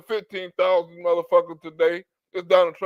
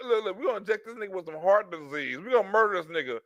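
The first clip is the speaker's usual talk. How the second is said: mock plotting doctors. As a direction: play the doctors hatching a plot. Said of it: "do they go out and make people".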